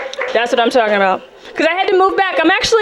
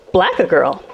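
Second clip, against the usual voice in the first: baffled repeat; 7 semitones lower, slower than usual. Real, not acted.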